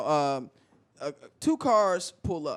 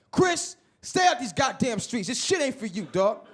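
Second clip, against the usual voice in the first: cousin lectures him then mocks; mock exasperated cousin; embarrassed cousin; 7 semitones higher than usual. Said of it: "And he was like".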